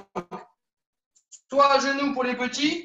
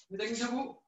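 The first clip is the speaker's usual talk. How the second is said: quiet repeat; 13 dB quieter than usual. Real, not acted. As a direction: murmur "Technique debout" to yourself.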